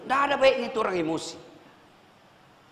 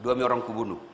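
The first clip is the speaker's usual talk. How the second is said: lower, quiet menace; menacing inmate; 10 semitones lower, 5 dB quieter than usual. Acted. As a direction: play the tough inmate warning the boss. (ancaman pelan narapidana)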